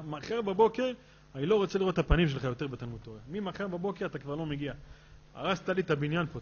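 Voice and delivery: a mock yell at the teacher, quick and sharp; the principal tells off the teacher in a hammed-up angry voice; retold angry scolding. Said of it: "שטף אותו בצעקות".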